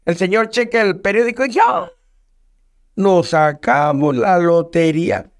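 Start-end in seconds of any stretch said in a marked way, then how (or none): 2.9-5.3 slow, deliberate lottery announcement; acted slow reveal; measured announcement. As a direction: spell out the win slowly, word by word. Joke character announces lottery win.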